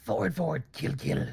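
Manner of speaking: put-on, creaky, rasping rat character voice. Trying out the best rat voice they can manage, put-on rat voice. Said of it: "Let's see the best rat voice I can do".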